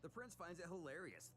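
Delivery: plain reading voice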